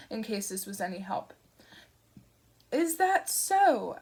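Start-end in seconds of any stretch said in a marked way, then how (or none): 2.7-4.0 suspicious Shadwell. Acted.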